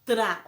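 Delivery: "Tra" loud, R tapped right after T; tongue-flipped R. Shown as a demonstration. Teacher showing the other sound, loud "Tra" with tapped R. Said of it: "ele fica com outro som".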